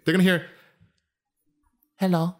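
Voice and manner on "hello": higher-pitched stereotyped Asian guy voice; mock Asian guy. Comic telling of what daters hear, mock Asian guy. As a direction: put on a brief caricature Asian greeting. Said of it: "With the Asian guy".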